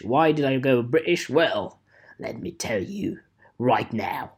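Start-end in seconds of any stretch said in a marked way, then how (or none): 2.2-4.3 whisper. Real, not acted. Whispered aside.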